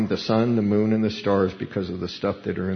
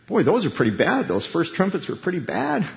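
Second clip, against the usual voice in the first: emphatic dismay; 6 semitones higher than usual. Retold or imitated. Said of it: "emphasizing, kinda like".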